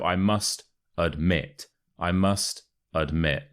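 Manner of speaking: "admit" as ud-MIT, weight on "mit"; stress on second syllable. Shown as a demonstration. Teacher drills the expression with learners, "admit" stressed on "mit". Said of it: "the stress is on the second syllable".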